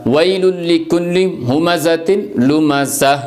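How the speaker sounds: measured tajweed recitation of the verse; Quran recitation. Shown as a demonstration. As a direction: recite the ayah with careful tajweed. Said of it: "اس کو ہا پڑھتے ہیں". (تجوید کے ساتھ تلاوت)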